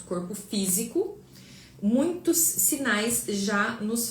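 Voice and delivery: slow, measured inspirational reading; oracle card reading. Acted. Host reading the weekly angel oracle card to her viewers, measured reading voice. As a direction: read the message like a gentle sermon.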